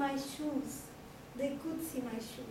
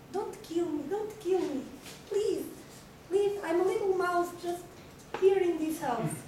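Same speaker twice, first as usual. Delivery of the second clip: frightened begging; 5 semitones higher than usual. Acted.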